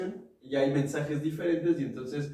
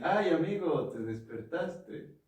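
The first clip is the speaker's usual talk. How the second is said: gentle; 3 semitones higher than usual. Shown as a demonstration. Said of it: "la misma frase".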